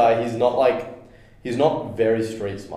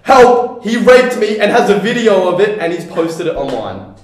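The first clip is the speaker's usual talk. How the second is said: much higher, louder mock scream for help; retold street yell, hammed up; 8 semitones higher, 10 dB louder than usual. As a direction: shriek it like the crackhead lady. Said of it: "She goes".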